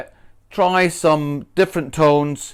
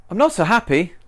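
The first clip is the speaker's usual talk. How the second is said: higher, cheery unhappy line; wrongly cheerful; 5 semitones higher, faster than usual. Shown as a demonstration. Teacher demos a mismatched cheerful tone. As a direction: say sad words happily. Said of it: "it sounds like you are happy".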